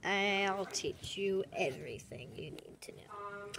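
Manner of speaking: slow whispered promise. Pretend. Cat whispering promise to teach everything. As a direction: whisper it slowly like a secret.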